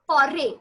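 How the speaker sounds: foray ending on an open "ay", no T; silent final T. Shown as a demonstration. French teacher models the example word, silent T in foray. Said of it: "did not pronounce the T".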